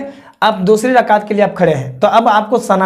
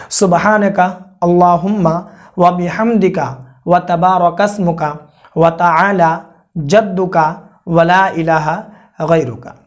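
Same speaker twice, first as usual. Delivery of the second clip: slow recitation; slower than usual. Shown as a demonstration. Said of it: "अगर नहीं याद है तो आप याद कर लीजिए".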